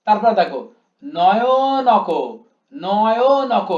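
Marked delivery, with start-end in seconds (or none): 1.0-2.1 "নয়নক" slow, loud, higher, in four open syllables. Shown as a demonstration. Teacher reciting four beats, "নয়নক" slowly syllable by syllable. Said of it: "প্রত্যেকটা single single উচ্চারণ". 2.7-3.7 "নয়নক" loud and stretched, no-yo-no-ko; syllable by syllable. Shown as a demonstration. Teacher asking how many beats, "নয়নক" syllable by syllable. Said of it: "কবে উচ্চারণ করেছি".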